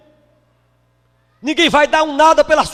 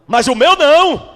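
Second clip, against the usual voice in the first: proud building retort. Retold or imitated. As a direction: build the boast up until the last line rings out. Preacher voicing his proud reply.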